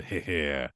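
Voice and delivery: soft low heh heh; a quick signature chuckle; little chuckle. Shown as a demonstration. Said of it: "that little bit of a laugh".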